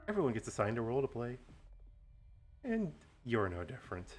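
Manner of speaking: gloating villain monologue; slow theatrical villain menace. Acted. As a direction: lay out the grand plan, gloating. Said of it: "do a nice villain monologue".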